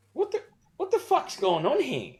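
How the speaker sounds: high, startled outburst; bewildered. Retold or imitated. Bewildered punter at the bar asking what's happening. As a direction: go way up in shock. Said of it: "I was at first bewildered".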